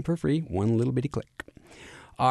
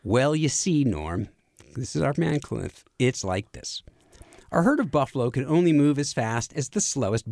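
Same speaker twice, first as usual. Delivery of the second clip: reads the Cheers quote in his own voice, no accent; just read it out, no Boston accent; reading a quote aloud. Shown as a demonstration. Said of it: "So I'm just gonna read this".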